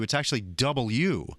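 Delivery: W said slowly with every syllable; careful W. Shown as a demonstration. Radio host teaching proper W. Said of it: "It's not W".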